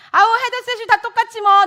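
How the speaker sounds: high, loud imitation of a dismissive mother; scoffing dismissal. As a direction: brush it off loudly, half laughing.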